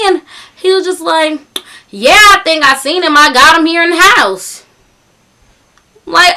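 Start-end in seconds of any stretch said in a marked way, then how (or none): 1.9-4.6 mimicked country caller, slightly raised; thick country accent. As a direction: put on a country twang. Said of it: "talking in this thick country accent".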